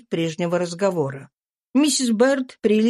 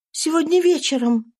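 higher, tense voice of a runaway mother; fugitive mother's voice; 9 semitones higher than usual. A narrator's reading. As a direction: voice the exhausted slave woman, pitched up. Eliza voiced. (беглая мать, голос выше, напряжённо)

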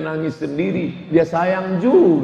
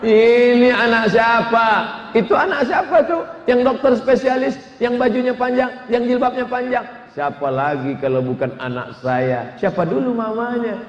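high, boastful mother's voice; proud mother; 5 semitones higher than usual. Acted. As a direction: brag about your doctor daughter. Proud mother showing off daughter. (ibu yang membanggakan anaknya, suara tinggi)

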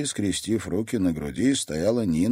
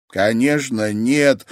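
sobbing; 5 semitones higher, 8 dB louder, much slower than usual. Acted. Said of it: "всхлипнула Луиза".

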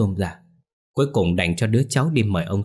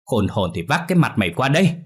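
higher angry yell; yelling after him; 4 semitones higher, 3 dB louder than usual. Acted. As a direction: shout threats down the road after son. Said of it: "chửi bới theo".

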